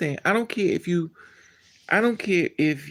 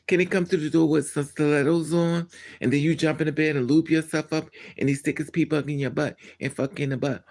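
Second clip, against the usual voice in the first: ordinary delivery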